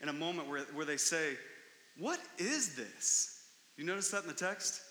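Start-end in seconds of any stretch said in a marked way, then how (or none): 2.0-3.4 astonished. Retold or imitated. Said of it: "To the point of being overwhelmed".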